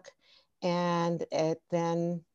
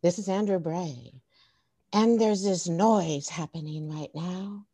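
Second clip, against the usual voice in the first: measured imitation of a child reporting live; mock reporter. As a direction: lightly play a reporter setting up a mystery. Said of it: "Like a reporter".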